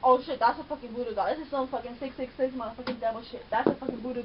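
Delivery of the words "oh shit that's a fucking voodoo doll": shocked. Real, not acted. Shocked reaction to TV.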